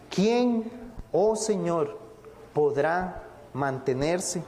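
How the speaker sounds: slow, solemn scripture question with pauses between phrases; rhetorical question. Retold or imitated. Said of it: "es una pregunta retórica lo que él hace". (pregunta retórica, lenta y pausada)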